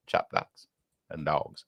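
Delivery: whispered to himself, puzzled. Real, not acted. Host mulls over a viewer's odd message, whispering. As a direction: breathe it out like a private thought.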